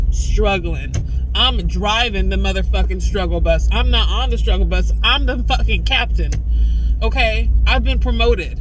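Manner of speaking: loud, fed-up rant, barely holding it together; real anger. Real, not acted. Vlogger venting to camera, loud and furious. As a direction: let the fury spill out at people who won't listen. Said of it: "Anger is better than mania".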